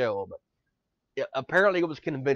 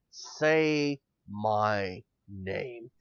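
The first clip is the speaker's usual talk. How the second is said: Zordon quoting Heisenberg; 4 semitones lower, 3 dB quieter, much slower than usual. Pretend. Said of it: "I want him so much to say".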